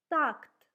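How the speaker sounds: "tact" said loud with unaspirated T; teacher modelling a Russian word for students; reading aloud. Shown as a demonstration. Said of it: "let's try to read the first Russian words".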